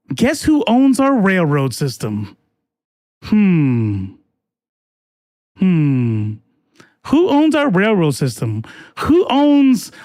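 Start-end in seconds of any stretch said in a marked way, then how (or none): 3.2-4.1 long, low, falling "hmm"; mock pondering hum. Streamer answering own railroad question, mock pondering. 5.6-6.3 long, low, falling "hmm"; mock pondering hum. Streamer answering own railroad question, mock pondering.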